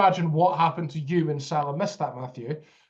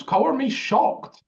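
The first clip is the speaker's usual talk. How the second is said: sarcastic; 9 semitones higher, 4 dB louder, slower than usual. Real, not acted. Sarcastic about Walker's errors.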